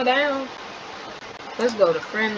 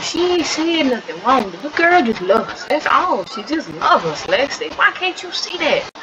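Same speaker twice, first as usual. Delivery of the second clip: earnest pleading; 3 semitones higher than usual. Acted. Sibling defends the girl to Lexi.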